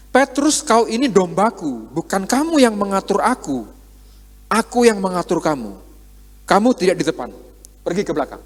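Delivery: firm rebuke, only mildly acted; Kristus, firm. Preacher voices Christ correcting Petrus, mildly firm. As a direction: put a disciple in his place, understated. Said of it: "Dengan tegas, Kristus ingin mengatakan".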